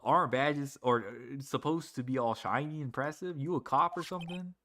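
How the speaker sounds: doubtful, lightly Southern; Lotta's southern accent. Acted. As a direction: question them in a light Southern twang. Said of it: "She has a southern accent".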